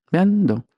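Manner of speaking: "breando" pitched high with the stress on "brean"; stressed syllable. Shown as a demonstration. Teacher isolating the stressed syllable for the interviewer, pitched high. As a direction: lift and punch "brean" in "breando". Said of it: "la sílaba tónica es brean".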